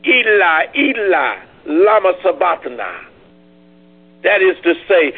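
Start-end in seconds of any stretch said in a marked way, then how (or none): 0.0-3.1 loud cry. Acted. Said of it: "He cried with a loud voice, saying".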